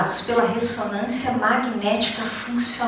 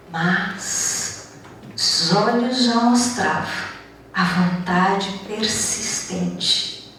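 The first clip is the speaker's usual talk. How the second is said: measured monologue with long pauses; unhurried, phrase-by-phrase dramatic reading; poetic recitation; 3 semitones lower than usual. Acted. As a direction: recite it like a spoken poem, pausing between phrases.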